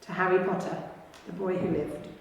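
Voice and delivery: soft, hushed and fading; hushed toast. Acted. Secret wizards toasting Harry in hushed voices. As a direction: raise a quiet, reverent toast. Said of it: "saying in hushed voices".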